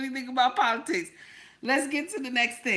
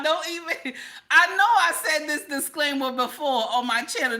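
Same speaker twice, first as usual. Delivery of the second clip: laughing; 4 semitones higher than usual. Real, not acted. Laugh heard on lines.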